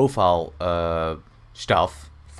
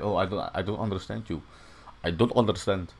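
put-on loose, improvised Russian accent; 4 dB quieter, faster than usual. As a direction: imitate someone baffled, lightly Russian-accented. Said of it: "kinda like a Russian accent".

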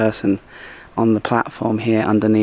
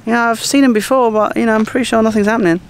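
much higher, breezy falsetto mermaid; sweet mermaid; 13 semitones higher than usual. Retold or imitated. Mermaid brushing off the angry wife, high sugary falsetto. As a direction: play the innocent mermaid, all sugary denial. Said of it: "and she's like".

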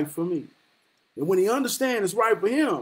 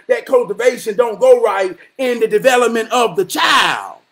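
preaching shout; 2 semitones higher, 7 dB louder than usual. Real, not acted.

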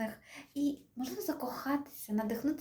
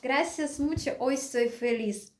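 loud, higher-pitched cry to the singer; delighted gushing thanks; 4 semitones higher, 4 dB louder, slower than usual. Pretend. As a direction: thank the singer like a happy fan. Thanks singer after the song.

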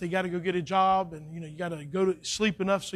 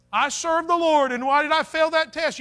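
mock student whine; 9 semitones higher, 8 dB louder than usual. Preacher voices a student complaining.

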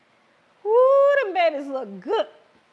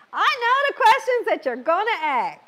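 higher, teasing repeat; playful emphasis; 5 semitones higher, 3 dB louder than usual. Real, not acted. Host teasing her live viewers, a higher playful repeat. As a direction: say it again with a knowing, playful push. Repeats it louder, then laughs.

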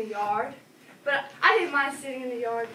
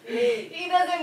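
higher and louder, laughing through it; giggling; 6 semitones higher, 4 dB louder than usual. Acted. Child tells visitor grandpa wets himself, giggling. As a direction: giggle at the embarrassing part.

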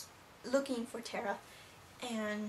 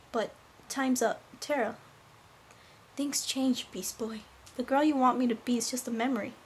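acted farewell; 6 dB louder than usual. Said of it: "I'll show you how it went".

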